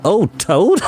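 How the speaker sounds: laughing through the words; amused at the very idea of Toad; laughing heartily. A narrator's reading. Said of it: "laughing heartily".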